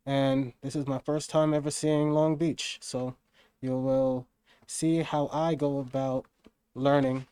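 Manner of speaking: talking through a face mask; muffled, as if behind a mask. Real, not acted. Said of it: "voice is muffled. I gotta race with a mask on".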